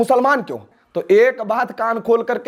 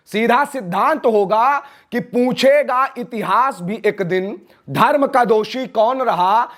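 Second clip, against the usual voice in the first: slow, measured verse-like declamation; drawn-out rhetorical cadence; oratorical declamation; slower than usual. Real, not acted. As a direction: deliver it slowly as a solemn public warning. Declaims a rhyming warning.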